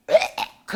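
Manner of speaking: harsh whispered gag from the throat; retching gag. Retold or imitated. Child gagging as the spirit leaves, harsh retch. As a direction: mimic a child retching hard. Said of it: "하더니".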